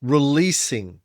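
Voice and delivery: dramatic gravitas. Acted. Dramatic build.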